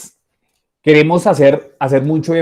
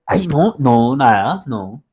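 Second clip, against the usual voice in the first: dismissive denial; slower than usual. Retold or imitated. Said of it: "se te va a notar".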